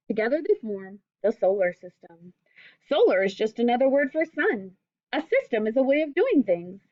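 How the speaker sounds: gentle storybook reading voice; reading to children. Acted. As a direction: read it like a picture book to kids. Teacher reads picture book aloud.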